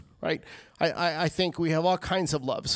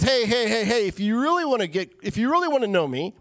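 Jesus urging; 5 semitones higher than usual. Retold or imitated. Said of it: "he says".

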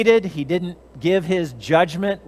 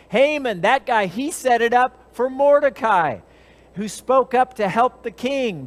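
eager eunuch; 5 semitones higher than usual. Acted. Harbona eagerly tells the king about the pole, raised voice. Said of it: "Harbona, one of the eunuchs, said".

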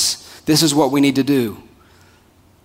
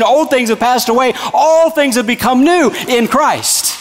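rhythmic refrain climbing steadily higher; preaching crescendo; 3 semitones higher than usual. Real, not acted. Preacher on new life in Christ, building fervour.

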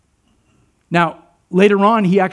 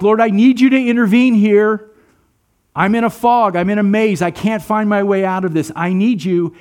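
raised, urgent plea to God; pleading prayer; 4 semitones higher, 4 dB louder than usual. Acted. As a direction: cry out for help in mock prayer. Acted desperate prayer to the Lord.

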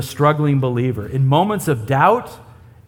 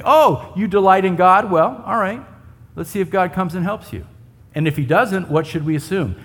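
sarcastic taunt; 2 semitones higher than usual. Retold or imitated. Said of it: "it's this sarcastic thing".

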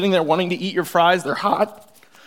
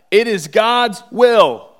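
slow, louder, higher proclamation; preaching at full force; 6 semitones higher, 9 dB louder, much slower than usual. Real, not acted. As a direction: proclaim it like a verdict.

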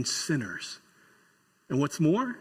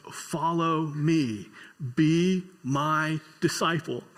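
gentle invitation; much slower than usual. Retold or imitated. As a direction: call him kindly and slowly. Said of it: "and he says".

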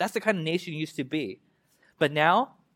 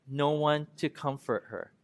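slow, weighty reading of the lament; mournful Bible reading; solemn scripture reading; slower than usual. Acted. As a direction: read each line slowly, letting it sink in. Scripture refrain.

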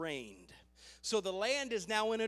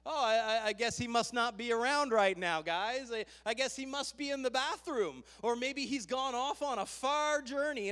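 mocking. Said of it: "he was mocking them".

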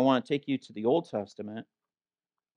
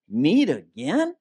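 drawn-out, fed-up question; mock dismay; 4 dB louder, slower than usual. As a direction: groan it like a tired diner facing the same dish. Acts out being sick of meat.

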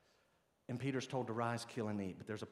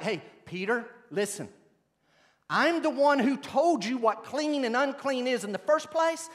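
a hint of a commanding divine voice, louder at times; voice of God; 8 semitones higher, 9 dB louder than usual. Preacher voicing God telling Peter to eat, mildly commanding. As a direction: lightly voice God's authority over Peter. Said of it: "the authority of the voice is like".

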